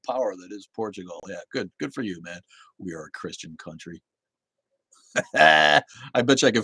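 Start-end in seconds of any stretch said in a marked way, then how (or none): 2.8-4.0 much softer, lower dismissive parody; mocking. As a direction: mutter it back with contempt. Mocking the viewer's comment.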